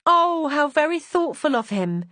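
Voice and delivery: high, slow, swooning admiration; a sigh of delight, drawn out; gushing cry. A narrator's reading. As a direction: maid swoons over the Viscount. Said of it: "Winelda cried".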